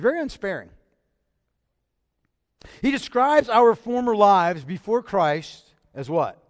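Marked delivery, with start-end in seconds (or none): 2.8-6.4 drawn out, deliberate asking; slow it down to draw them in; slow teacher's question; slow rhetorical question. Real, not acted.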